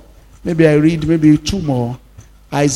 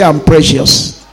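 leading a declaration; 3 semitones lower, 4 dB louder than usual. Shown as a demonstration. Pastor leading church to repeat the verse, firm. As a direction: model the words for them to echo.

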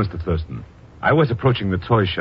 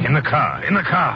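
second take higher and pushier; hurrying; 9 semitones higher than usual. Acted. Deputy pushes professor into the car, rising urgency. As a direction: shove him in, faster now.

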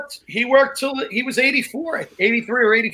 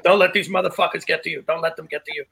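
put-on Bobby's accent; 4 semitones lower, 3 dB quieter than usual. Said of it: "With that accent".

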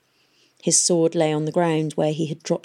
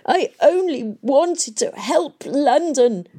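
high, slow sobbing lament; sobbing old man; 8 semitones higher, 4 dB louder, slower than usual. A narrator's reading. Old Kroom sobbing over London. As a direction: weep out the words. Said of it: "the old man sobbed".

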